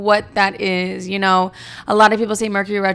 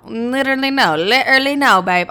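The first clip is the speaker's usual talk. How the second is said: put-on British accent, pitched higher; 4 semitones higher than usual. Real, not acted. Host insisting no to listeners, mock British accent. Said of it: "I cannot stop doing this British accent".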